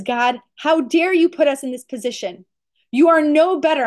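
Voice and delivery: angry accusation. Acted. Moshe confronts God over his people's plight, mildly angry. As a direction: accuse with a touch of outrage. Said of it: "Moshe gets really angry".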